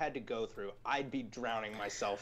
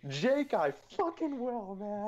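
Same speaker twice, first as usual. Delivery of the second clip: fired-up reply; 7 semitones higher, slower than usual. Retold or imitated. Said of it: "And I was like".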